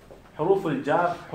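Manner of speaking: حروف الجر said very slowly, each syllable drawn out; teacher stretching حروف الجر for the class; slow teaching pronunciation. Shown as a demonstration. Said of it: "ایک حرف ہے کاف".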